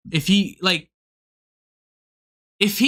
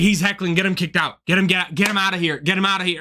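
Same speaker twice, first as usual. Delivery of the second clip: lower-pitched, hurried mock complaint; imitating a complainer; 4 semitones lower, faster than usual. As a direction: mimic him tattling to the bartender, pitched down. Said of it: "He's like".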